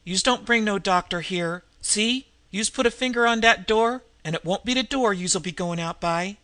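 threatening tough woman. Acted. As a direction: menace her with a gangster's snarl. Nan threatens with revolver.

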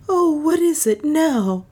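high, anxious woman's voice. A narrator's reading. Juana asks Leonard what has happened, anxiously. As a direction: pitch it high, worried.

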